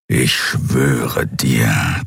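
tief, sehr langsam geknurrt; knurrend. A narrator's reading. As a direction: knurr die Drohung wie ein Raubtier. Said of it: "knurrte der Skria". (tiefes, sehr langsames Knurren)

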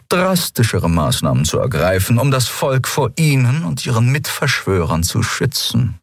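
calm certainty of the victor; cold officer. A narrator's reading. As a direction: commodore telling the prisoner of his fate, cold. Monaro answers coldly.

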